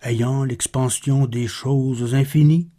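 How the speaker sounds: measured, slightly subdued poem reading; poetry recitation. Acted. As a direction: recite the verse with pauses between phrases. Reads Baudelaire's poem aloud.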